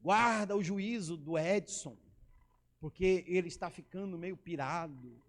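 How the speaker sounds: slow, low imitated pastoral prayer; lightly acted pastor praying in drawn-out phrases; solemn prayer. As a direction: pray over him slowly, mock-solemn. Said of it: "Ele orou assim".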